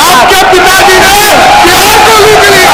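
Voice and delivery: real shouted accusation in a row; heated accusation. Real, not acted. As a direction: hurl the charge across the chamber. Shouted accusation across the assembly.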